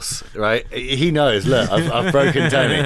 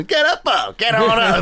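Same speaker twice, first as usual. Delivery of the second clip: imitating a soul singer; 8 semitones higher than usual.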